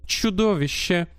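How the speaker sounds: countess voice. Acted. Countess denounces her partner.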